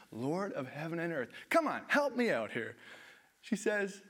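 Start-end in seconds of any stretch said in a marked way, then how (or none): 0.1-2.8 playful whine for help; exaggerated pleading; mock Martha plea.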